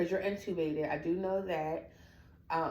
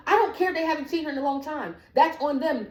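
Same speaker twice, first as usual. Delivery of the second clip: higher-pitched, rushed retort; indignant arguing; 5 semitones higher than usual. Retold or imitated. Daughter told to let others go first, indignant arguing. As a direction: argue back, refusing to calm down. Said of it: "they're tired of me yelling".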